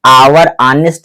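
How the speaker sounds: आवर, ऑनेस्ट both begun on vowels; silent H. Shown as a demonstration. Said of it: "यहां से sound उत्पन्न हो रहा है अंदर से".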